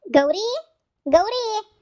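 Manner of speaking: high, loud call of a name. Real, not acted. Guest calls out for Gowri, high and loud.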